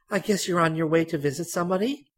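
put-on high, sweet prying old lady; chatty old lady. A narrator's reading. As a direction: ask like a nosy talkative lady. Voicing Mrs Hitchcock.

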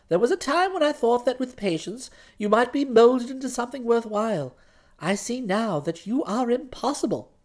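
soft, cold final verdict; stern fiancée. Acted. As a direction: dismiss him with quiet disdain. Florence dismisses Bertie.

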